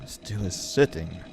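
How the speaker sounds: slow, level-voiced poem line; measured verse reading. Reader describing the raven that stays, measured and grave. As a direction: recite it gravely and unhurried.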